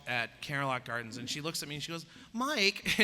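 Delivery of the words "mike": lightly mimicked, higher-pitched address; imitating her tone. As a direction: mimic a woman calling him by name. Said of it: "in that tone she used".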